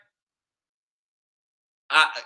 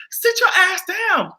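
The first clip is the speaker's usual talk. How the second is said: higher, slow "Sit your ass down"; emphatic dismissal; 9 semitones higher than usual. Real, not acted. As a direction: lean on "your", falling. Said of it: "repeated refrain".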